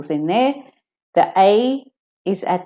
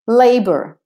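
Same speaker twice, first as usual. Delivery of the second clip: American LAY-ber, R sounded in labour; American pronunciation; 4 semitones higher, 5 dB louder than usual. Shown as a demonstration. Teacher showing the American version, American labour. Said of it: "if you're doing the American".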